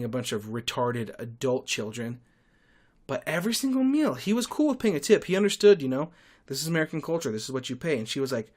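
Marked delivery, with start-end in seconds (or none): 3.1-5.8 emphatic praise. Real, not acted. Praising the husband over the wife.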